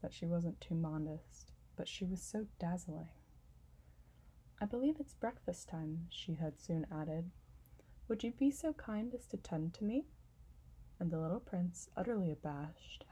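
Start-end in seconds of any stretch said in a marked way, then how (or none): 4.6-10.1 lightly voiced, dainty flower; vain flower voice. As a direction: ask sweetly, a touch demanding. Flower asks for breakfast.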